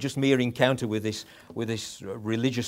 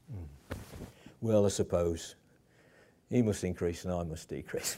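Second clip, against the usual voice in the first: reluctant, bitter; 4 semitones lower than usual. Shown as a demonstration. Preacher mimicking a reluctant John, grudging and sour. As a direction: say it as if forced to give in. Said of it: "it's not said like that".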